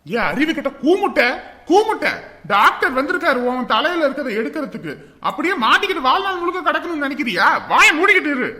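exasperated telling-off; angry scolding. Acted. Telling the stuck patient to shut up, scolding. Insults patient, orders silence.

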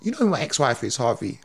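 a hint of a low, quiet star; understated low imitation; lightly voiced Steven Seagal. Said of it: "And he went".

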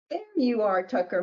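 a mild, happy call to the cat; joyful call. Acted. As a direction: greet the lost cat gladly, not full volume. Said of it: "Mary shouted with joy".

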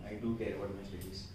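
slow, "do" weighted in the sentence; stress on do. Shown as a demonstration. Teacher dictating the emphatic form, stress on do. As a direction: lean on "do", unhurried. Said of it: "अपनी बात को जोर देके".

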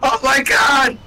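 high-pitched, hammed-up exclamation; mock shocked cry. Co-player overreacting to a lackluster game line, mock shocked cry.

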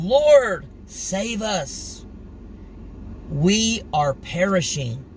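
panicked plea for help; urgent frightened call; 1 frightened cry. Acted. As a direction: cry out in terror to be saved. Disciples crying out in storm.

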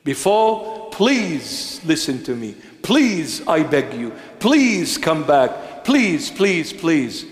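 lightly voiced patient Lord, slow and begging; a hint of God begging his people to return; pleading God. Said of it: "he will say".

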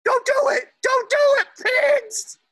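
loud urgent warning. Real, not acted. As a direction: shout a warning. Child warns pigs loudly.

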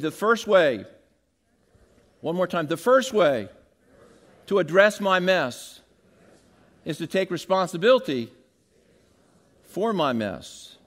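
loud emphatic lines, each with a pause after it; call and response. Shown as a demonstration. Preacher has the congregation repeat the key point, loud and emphatic. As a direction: lead the crowd in repeating. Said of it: "So say this with me".

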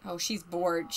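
normal talking voice

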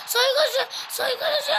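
laughing. Real, not acted. Laughs during the rising calls.

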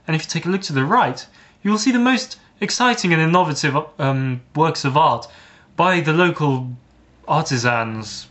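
mock tour-guide announcement; tube driver intercom. Tube driver cheering up delayed passengers, mock tour-guide voice. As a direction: present it grandly, like a guided sightseeing tour. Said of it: "he goes on the intercom".

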